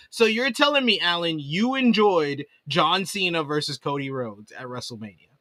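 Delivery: mildly sarcastic disbelief. Real, not acted. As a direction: question the fan with a touch of sarcasm. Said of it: "with that sarcastic voice".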